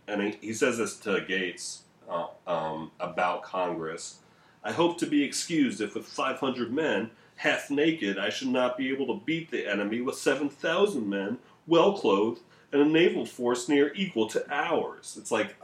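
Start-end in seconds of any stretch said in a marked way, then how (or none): 4.6-15.2 higher-pitched, mock-formal sarcastic reading; bitchy old-time sarcasm. Host quoting Ben's sarcastic letter to Gates, bitchy. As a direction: read it out with bitchy, archaic sarcasm. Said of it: "that's what sarcasm sounded like in seventeen seventy-seven".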